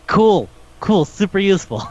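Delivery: high, dry sarcasm; sarcastic. Real, not acted. Mocking a useless witness to a friend, sarcastic. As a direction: praise it with contempt. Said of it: "sarcasm about the witness".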